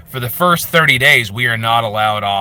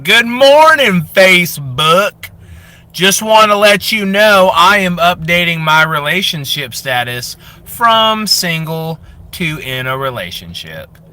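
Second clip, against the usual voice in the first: higher, slow, sugary announcement voice; oversharing Facebook lady; 6 semitones higher, 4 dB louder than usual. Acted. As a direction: coo it out like a proud status update. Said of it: "one character is always like".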